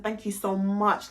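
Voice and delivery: softly, full of gratitude; hushed, grateful thanks; soft thank you. Retold or imitated. To the man who helped her, a soft thank you. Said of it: "I just hugged him and said".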